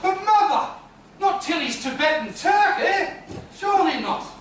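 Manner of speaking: high, pleading son begging his mother. Acted. Son begs mother to spare the turkey, high and pleading. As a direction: plead up high, half laughing.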